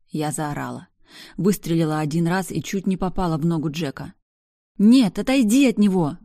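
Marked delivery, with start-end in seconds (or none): 4.8-6.2 loud, high cry to distract the beast; desperate shout. A narrator's reading. Woman screams at mutant attacking Jack, loud desperate shout. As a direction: yell it out to draw the monster's attention. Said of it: "кричала я в надежде".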